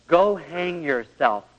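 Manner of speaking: slow dismissive go hang yourself; cold retort. Retold or imitated. Wife brushing off husband, slow and cold. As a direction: drag out go hang yourself coldly. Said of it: "she turns to him and says".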